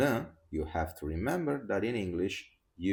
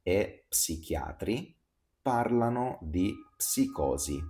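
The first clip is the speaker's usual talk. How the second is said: tongue twister recital. Shown as a demonstration. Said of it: "let's start with a tongue twister".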